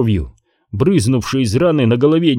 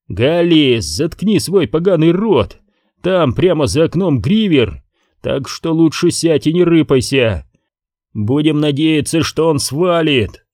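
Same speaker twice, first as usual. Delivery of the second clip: higher, urgent shouted order; angry shout; 4 semitones higher than usual. Acted. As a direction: shut him up hard. Newt shouts Gally down.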